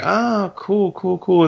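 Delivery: high-pitched mock-casual "cool"; imitating feigned nonchalance; mimicked cool reaction. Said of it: "you were like".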